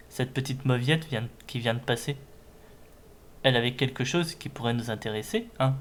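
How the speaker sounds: lightly voiced sneering villain; a hint of menacing henchman. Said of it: "j'essaie de faire des voix de méchants".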